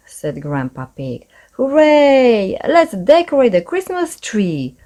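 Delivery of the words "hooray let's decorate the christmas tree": high, loud little cheer. A narrator's reading. Peppa cheering to decorate the tree, high and excited. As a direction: cheer like a thrilled child. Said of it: "cheered Peppa".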